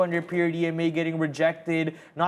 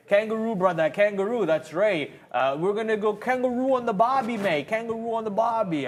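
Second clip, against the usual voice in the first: put-on a lazy, half-hearted Australian accent; joking Aussie voice, barely trying at Australian; bad Australian accent; 3 semitones higher than usual. Hamming up Australian slang for the chat, in a bad Australian accent. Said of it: "good enough of an Australian accent for you".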